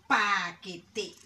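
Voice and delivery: paquete broken into pa, que, te; deliberate pa-que-te; syllable by syllable. Shown as a demonstration. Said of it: "Y decirlas por, eh, sílabas".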